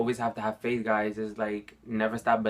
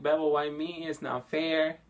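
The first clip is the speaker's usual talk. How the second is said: higher-pitched, pleading as if crying; retold tearful plea; 5 semitones higher than usual. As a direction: relive a tearful protest to a brother. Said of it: "and I was crying".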